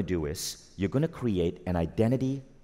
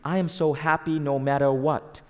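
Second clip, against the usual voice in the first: higher-pitched, insistent self-affirmation; forced affirmation; 6 semitones higher, 3 dB louder than usual. Acted. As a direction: chant it like you are convincing yourself. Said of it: "Too many people might say".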